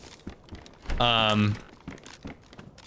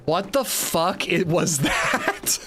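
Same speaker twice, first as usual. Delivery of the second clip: slow, laughing through the question; laughing quote; slower than usual. Retold or imitated. His date turned and asked him, laughing slowly. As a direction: retell her line while cracking up. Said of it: "looked at me and went".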